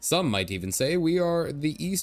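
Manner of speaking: a cheery Irish leprechaun greeting. Acted. Merchant greeting strangers in a lightly voiced Irish leprechaun accent. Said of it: "Irish leprechaun with this".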